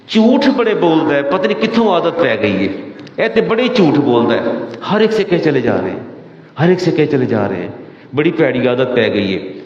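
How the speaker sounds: mock exasperated parent grumbling; complaining parent. Parents complain about lying child.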